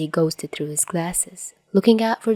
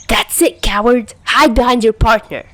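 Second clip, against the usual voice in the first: loud, higher taunting yell; 5 semitones higher, 7 dB louder than usual. Acted. Chuya yelling at Tachihara hiding behind Gin. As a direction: call him out across the field. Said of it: "Chuya yelled".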